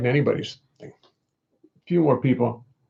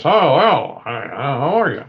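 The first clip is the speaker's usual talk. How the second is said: lightly voiced dummy chatter; a hint of ventriloquist's puppet; 4 dB louder, slower than usual. Shown as a demonstration. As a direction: play a dummy greeting someone. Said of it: "I'm just like this".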